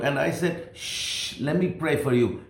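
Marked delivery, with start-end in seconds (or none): 0.7-1.4 soft voiceless shh; shushing. Retold or imitated. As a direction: hush her gently. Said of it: "tried to shush her".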